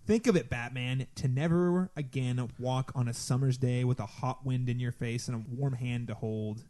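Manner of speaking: low, slow and mournful; Mister Freeze voice. Retold or imitated. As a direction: brood like a tragic villain. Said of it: "he says".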